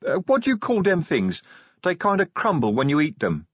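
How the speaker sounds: troll feeling for the answer; tentative troll. A narrator's reading. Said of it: "he ventured".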